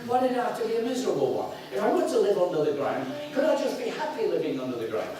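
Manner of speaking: lightly voiced childish complaint; mock plaintive child. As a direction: plead like a sulky little boy. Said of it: "I thought".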